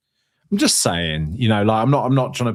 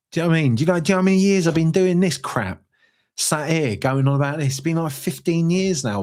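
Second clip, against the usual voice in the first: mock rant; 6 semitones higher, faster than usual. Host moaning to listeners, hammed-up grumble. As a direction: rant as if hard done by.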